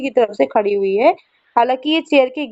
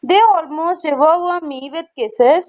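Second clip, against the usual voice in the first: 1 slow reading; 3 semitones higher, much slower than usual. Shown as a demonstration. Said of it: "teacher reads poem aloud".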